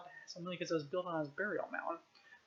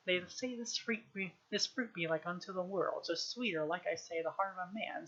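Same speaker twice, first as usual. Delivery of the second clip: recited verse. Acted. Child recites play speech gravely.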